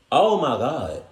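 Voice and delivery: loud high gasp of disbelief; loud stunned exclamation; shocked. Real, not acted. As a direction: blurt it out in shock. Shocked reaction.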